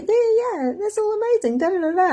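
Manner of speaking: very high, gushing friend's yeah yeah. Retold or imitated. Friend's reply to my message, faked high gushing. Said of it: "she was like".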